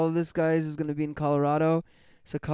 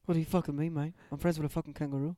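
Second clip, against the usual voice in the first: mock Aussie bloke, Australian accent; hammed-up Australian accent, tossing in mate; light put-on Australian accent; 3 dB quieter than usual. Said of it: "this is how fucking people in Australia talk".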